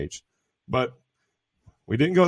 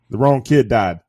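deadpan movie quote; 7 dB louder, slower than usual. Retold or imitated. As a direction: deliver it like the movie line. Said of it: "to quote one of my favorite comedies".

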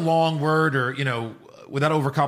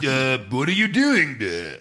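awkward dub voice; slower than usual. Retold or imitated. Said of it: "like that, which sounds stupid".

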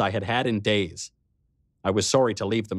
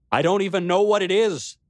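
cracking high with emotion; voice breaking; 10 semitones higher, 4 dB louder than usual. Acted. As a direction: near tears, voice cracking up high. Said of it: "my voice breaking".

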